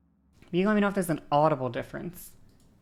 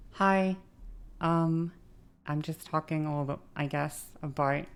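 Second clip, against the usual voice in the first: more feminine voice. Shown as a demonstration. Streamer shows viewers her more feminine voice, lightly raised. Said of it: "be more like this".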